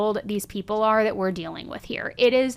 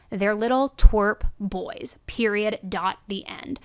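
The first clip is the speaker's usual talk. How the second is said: slow, pointed, word-by-word emphasis; heated emphasis; slower than usual. Real, not acted. Host venting about the boys, heated emphasis. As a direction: land each phrase as a final verdict. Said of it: "I know I'm getting heated".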